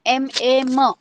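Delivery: एम, ए as letter names, then the sound; spelled-out pronunciation. Shown as a demonstration. Teacher showing how म is pronounced, spelled out letter by letter. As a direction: spell out एम ए एम for learners. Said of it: "म को कैसे pronounce करना है".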